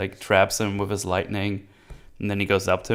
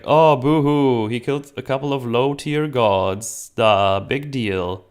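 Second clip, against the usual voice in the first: mocking Zeus; 4 semitones higher, 4 dB louder than usual. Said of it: "He's like".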